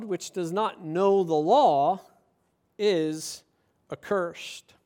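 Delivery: low, measured Bible reading; scripture reading. Acted. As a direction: read the passage aloud, low and deliberate. Reads scripture aloud.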